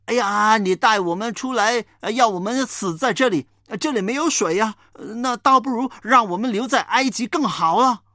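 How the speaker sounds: whining complaint. Acted. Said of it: "他们对摩西哭啊".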